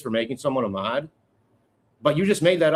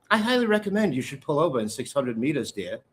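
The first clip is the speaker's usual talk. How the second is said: lightly imitated Indian English accent, polite and prim; a hint of an Indian accent as a polite sat-nav voice; GPS lady Indian accent. Host imitating his phone's GPS lady with a light Indian accent. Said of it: "my G P S lady has an East British Indian accent".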